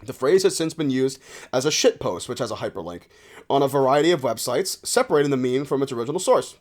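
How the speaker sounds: measured encyclopedia reading; read-aloud article. Acted. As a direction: read it out like a formal entry. Reads a web article aloud.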